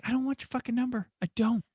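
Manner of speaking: high, quick mock-exasperated protest; retold exasperated refusal. Driver refusing the passenger's number, high hurried protest.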